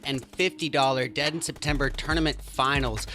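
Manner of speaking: booming esports caster intro; grand entrance announcement. Acted. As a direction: hype up the crowd like a ringmaster. Caster opens tournament broadcast.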